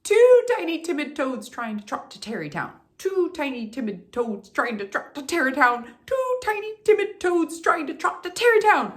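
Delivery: building toward a triumphant finish; rapid-fire twister. Shown as a demonstration. Coach racing the twister three times. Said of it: "Let's try that three times".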